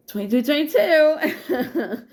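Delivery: real laugh breaking into crying; choked-up laugh over a painful confession; laughing through tears. Real, not acted. Admits something never told before.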